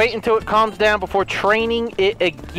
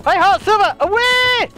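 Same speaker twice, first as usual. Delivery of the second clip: much higher, loud rider's order; mock command; 11 semitones higher, 4 dB louder than usual. Gamer orders the horse around in a loud mock rider's call. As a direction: bark it like a knight to his steed.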